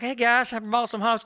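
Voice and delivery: grandma bringing hot dogs to the party; sweet old lady. Retold or imitated. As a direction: offer the food kindly like a grandmother. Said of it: "this sweet old lady walks out".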